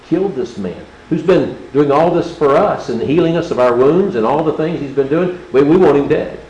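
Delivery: loud, rising angry crowd cry; mob demanding death. Acted. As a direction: whip it up into a mob shout.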